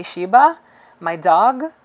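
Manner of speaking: loud, puzzled echo of the question; surprised. Retold or imitated. Idol echoing a fan's question in surprise. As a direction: repeat it back in loud surprise.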